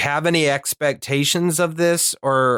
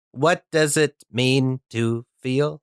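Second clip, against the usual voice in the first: slow robotic voice; slower than usual. Acted. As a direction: ponder it like a robot. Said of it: "my robot voice".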